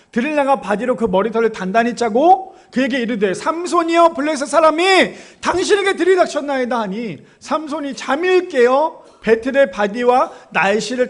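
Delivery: loud Bible recitation rising high on the cry; declaimed scripture reading. Acted. Preacher reads Delilah's cry to Samson, forcefully declaimed. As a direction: proclaim the verse, calling out to Samson.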